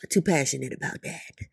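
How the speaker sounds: low, soft admission; subdued self-check. Real, not acted. Admitting to getting too passionate, subdued and low. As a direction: drop down and rein yourself in. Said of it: "perhaps I'm getting a little too".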